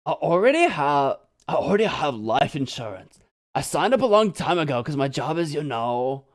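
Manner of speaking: lightly voiced laid-back surfer; surfer dude voice. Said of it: "You like the other voice I gave him?".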